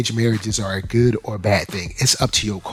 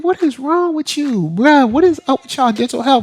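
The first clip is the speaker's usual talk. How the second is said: pitched-up mock indignation, dragged out; outraged disbelief; 12 semitones higher, 3 dB louder than usual. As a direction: demand an answer in mock outrage. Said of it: "I'm like".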